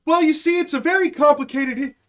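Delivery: hammed-up diplomatic waffle; mock evasive. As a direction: play a politician fumbling for an answer. Acted official dodging a hard question.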